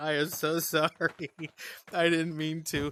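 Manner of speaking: slow, squeezed out through laughter. Retelling an apology to the maid while tears run: retelling own apology through laughter. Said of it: "what she didn't know is I was laughing".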